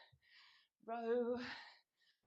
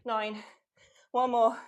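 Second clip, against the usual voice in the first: shouting; 16 dB louder, slower than usual. Real, not acted. Coach calling out final reps.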